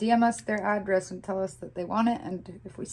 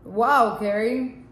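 loud, insistent Arabic-accented exclamation; put-on accent; 7 dB louder, much slower than usual. Shown as a demonstration. Refusing wife's request to drop it, loud Arabic accent. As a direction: keep the Arabic accent, big loud wow. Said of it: "The accent stays on".

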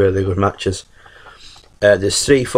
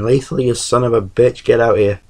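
mild mock shout, pitched higher; Ric Flair shouting; 3 semitones higher than usual. Wrestling star summons Lethal from the locker room, mock shout. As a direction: imitate an angry summons without really yelling. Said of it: "he'd be like, shouting".

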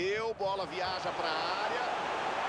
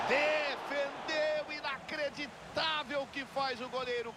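save call; 4 semitones higher than usual. Acted. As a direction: drag out the save in awe.

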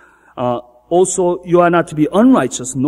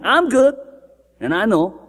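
self-righteous voice; 3 semitones higher than usual. Retold or imitated. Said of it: "person, self-righteous person".

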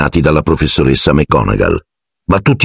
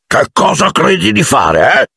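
roar; 13 semitones higher than usual. A narrator's reading. Hagrid to Harry, sudden furious roar. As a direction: explode at him without warning. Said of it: "ruggì".

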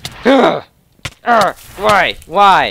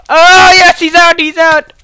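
high, excited victory cries; triumphant cheer; 8 semitones higher, 5 dB louder than usual. Real, not acted. Gamer seeing an opponent knocked out, elated yell. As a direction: cry out high as the rival drops out.

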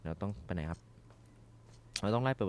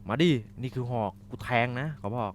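mock threat; 4 semitones higher, 6 dB louder than usual. Real, not acted. Threatening an enemy with spear.

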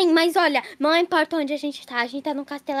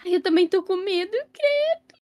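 scared, exasperated; 3 semitones higher than usual. Acted. Admite medo no esconderijo.

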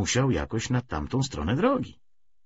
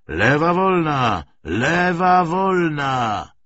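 drawn-out shouted call, high and loud; 8 semitones higher, 7 dB louder, much slower than usual. Acted. Gunner calling over the traffic jam, slow loud shout. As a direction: bellow it slowly across the jammed road. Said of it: "Wołanie".

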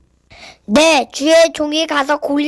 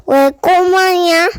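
giant voice; 3 semitones higher, much slower than usual. Acted. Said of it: "껄껄 웃으며 말했어요".

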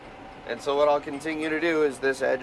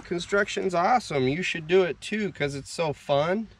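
mock vlogger pep; 4 semitones higher, slower than usual. Vlogger imitating his own nightly sign-off, mock peppy. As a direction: sell it with put-on enthusiasm. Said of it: "after I sign off and I'm like".

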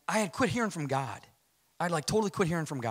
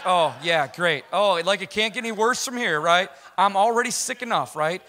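louder, higher exasperated rant at God; worked-up sarcastic venting, acting out your own panic; retold freak-out; 4 semitones higher, 7 dB louder than usual. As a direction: re-enact freaking out, voice climbing and loud. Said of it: "I'm, like, freaking out".

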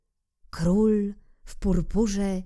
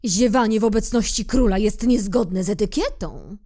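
loud, stiff royal decree; pompous king; 4 semitones higher, 6 dB louder than usual. Acted. King rebukes yawning little prince, loud and pompous. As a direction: lecture on etiquette from the throne. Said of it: "oświadczył monarcha".

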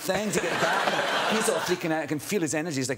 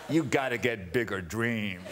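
a touch lower and slower, amused; a hint of a wry put-down; lightly voiced Oprah; 4 semitones lower, slower than usual. Oprah answering Eddie's photo request, lightly voiced and wry. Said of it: "Oprah went".

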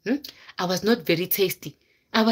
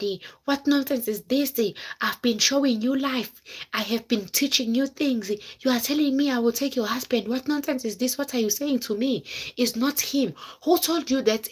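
higher-pitched retelling of an indignant comeback; mock indignant quarrelling; 3 semitones higher than usual. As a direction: imitate her telling you off, pitched up. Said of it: "started fighting with me and told me how nonsense I was".

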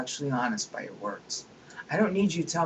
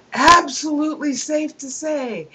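mock pompous quote; 9 semitones higher, 7 dB louder than usual. Quoting Dawkins with scorn.

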